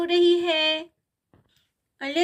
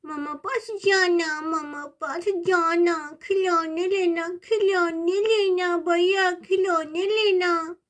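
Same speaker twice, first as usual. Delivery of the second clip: whiny crying. Acted. Baby crying for toys.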